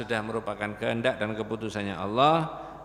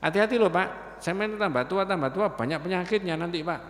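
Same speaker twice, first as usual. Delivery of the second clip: lightly mocking youth's warning; cheeky young man; 4 semitones higher than usual. Young man teases the old man about illness, cheeky and light. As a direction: needle him with a half-teasing warning. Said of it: "Ini tambah dodro omongnya".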